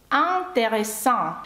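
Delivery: slow French "Intéressant", smiling nasal IN, open nasal AN; two different nasals. Shown as a demonstration. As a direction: draw out both nasal vowels in "Intéressant". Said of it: "тут два різні носові звуки".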